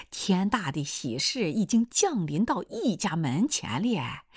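lightly voiced wheedling suitor, drawn out; a hint of slow, theatrical coaxing; cheeky would-be son-in-law. Suitor coaxes reluctant mother-in-law, lightly theatrical.

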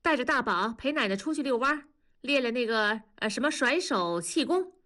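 put-on brisk instructions to the kids; instructing. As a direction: hand out the errand quickly. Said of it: "文丽吩咐着说".

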